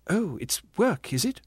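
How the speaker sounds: sour mock scorn at the word work; snapped. Ghost scorning her brother's specialised work: mild snap. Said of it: "snapped the ghost".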